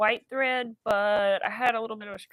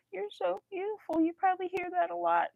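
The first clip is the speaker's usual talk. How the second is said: higher sweet voice for the bartender; imitating bartender; 10 semitones higher than usual. Retelling the bartender's compliment in a higher gushing voice. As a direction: lightly voice her gushing compliment. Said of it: "She was like".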